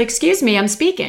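polite but firmer, pleasant tone. Retelling the second interruption: imitating a slightly more forceful reply. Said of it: "a little more forceful".

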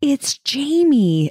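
acted crying, very high-pitched and tearful. Retelling what a woman said while breaking horrifying news, imitating words said through tears. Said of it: "through the tears".

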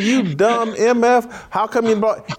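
loud screamed yelling and screaming. Retelling cursing out the general manager from the room at a draft party: retelling own yelling and screaming. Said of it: "I'm yelling and screaming".

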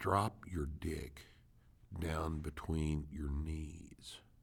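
low, hushed, barely audible half-whisper. Giving a helpful cue for males during a pelvic tilt demonstration, half-whispering. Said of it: "I'm going to whisper this".

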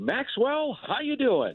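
very high-pitched character voice. Retelling how Bob Uecker greets him: Bob Uecker impression. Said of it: "That's a great impression".

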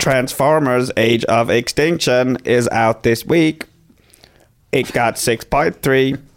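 robotic, machine-like robot voice. Announcing a film out this week after being asked: robot voice. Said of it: "Can you do it in a robot voice".

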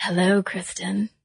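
fake breathy, flirty put-on voice. Showing a silly short-term voice quality: put-on breathy voice. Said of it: "like Marilyn Monroe or Kim Kardashian with those breathy voices".

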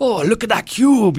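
put-on broad Scottish accent, high, slow and loud.

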